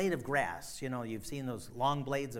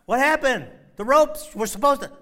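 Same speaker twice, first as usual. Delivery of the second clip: high, loud bewildered shout; baffled outcry; 12 semitones higher, 16 dB louder than usual. Acted. Delilah baffled that the ropes failed, shouting. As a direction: cry out in disbelief.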